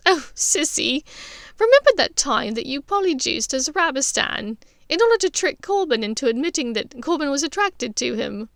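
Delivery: a hint of giggly big sister; lightly voiced Andromeda.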